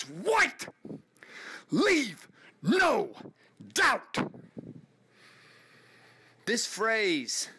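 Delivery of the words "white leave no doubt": coach's scream. Retold or imitated. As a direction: scream it at the huddle like a fired-up coach. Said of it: "and then he'd scream at us".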